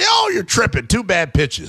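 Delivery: high-pitched imitation of a dismissive caller; mock protesting caller. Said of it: "a couple of callers earlier try to set me straight".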